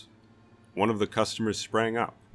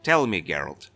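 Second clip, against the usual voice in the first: weary Castellan; 4 semitones higher than usual. Acted. Castellan lamenting witchers to Geralt, weary. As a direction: grumble about the times.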